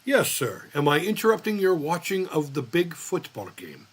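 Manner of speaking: lightly imitated Filipino accent; measured phone voice with a slight Filipino accent. Doctor interrupting the game by phone, light Filipino accent. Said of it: "I made an accent like that".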